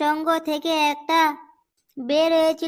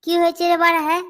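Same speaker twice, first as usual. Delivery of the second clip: higher, louder call across the crowd; 4 semitones higher, 4 dB louder, much faster than usual. Acted. Arriving member calling out to the crowd. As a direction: shout to find out what's going on.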